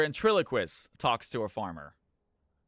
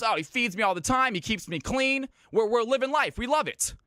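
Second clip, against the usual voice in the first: very high, animated pig voice; talking pig; 10 semitones higher, 3 dB louder than usual. Acted. Pig praising its owner to the ventriloquist, very high cheery voice. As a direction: pitch it way up as a happy pig. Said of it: "He goes".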